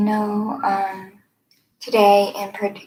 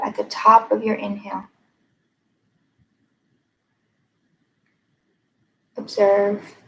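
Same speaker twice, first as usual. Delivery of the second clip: measured meditation guide, long pauses between phrases; guided meditation. Acted. Meditation teacher leading listeners to notice their breath, unhurried guided meditation. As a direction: guide them gently inward, leaving space after each phrase.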